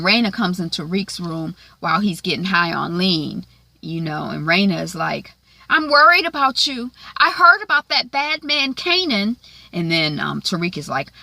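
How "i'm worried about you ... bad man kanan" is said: put-on higher, louder young girl voice, anxious; a kid sister's fretful, higher voice; worried sister. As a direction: play the worried little sister checking on her brother. Sister voiced worrying over brother.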